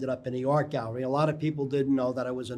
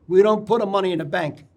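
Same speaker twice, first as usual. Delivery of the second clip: put-on Italian accent; 3 semitones higher, 4 dB louder than usual. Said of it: "in a very heavy Italian accent".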